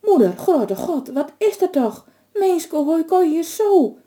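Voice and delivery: high, slow, near-crying alarm; shocked alarm. A narrator's reading. Son seeing his freezing mother, crying out in shock. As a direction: gasp it out, horrified to see her. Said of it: "vreug Koene".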